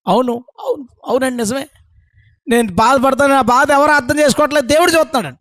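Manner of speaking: imitating a weepy churchgoer, pitch climbing; put-on tearful self-pity; mock tearful. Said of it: "కదా ఏడ్చేసి".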